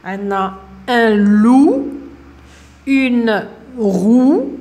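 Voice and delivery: the teacher reviews the ou words aloud to pupils. Shown as a demonstration. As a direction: call out each word clearly for the class to repeat. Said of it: "نعاود الصور".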